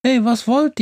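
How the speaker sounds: lightly voiced, challenging witch. A narrator's reading. Witch confronting five adventurers in the woods, challenging. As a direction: confront strangers as a young witch. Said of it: "spricht die seltsame Hexe".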